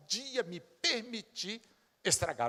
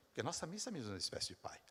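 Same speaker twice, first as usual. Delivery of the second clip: fast, breathy hushed aside; confiding whisper; 8 dB quieter, faster than usual. Real, not acted. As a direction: let them in on a secret.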